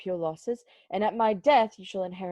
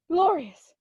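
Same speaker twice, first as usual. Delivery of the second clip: overjoyed cry; 7 semitones higher, 5 dB louder than usual. Acted. Overjoyed exclamation.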